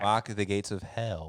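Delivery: slow, haunting demon intonation; eerie voice. Acted. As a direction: intone it slowly and ominously.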